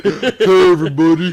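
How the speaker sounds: put-on goofy greeting; lightly exaggerated character hello; Abel voice. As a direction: mimic a friend's all-purpose impression voice. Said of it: "you do the Abel voice".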